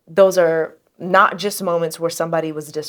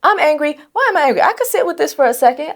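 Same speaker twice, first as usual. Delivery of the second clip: raised, high self-talk; inner voice; 8 semitones higher than usual. Pretend. Woman talking herself down from anger. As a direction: talk yourself through it, pitched up.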